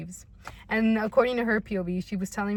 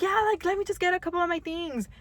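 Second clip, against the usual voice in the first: roommate voice; 11 semitones higher than usual. Retold or imitated.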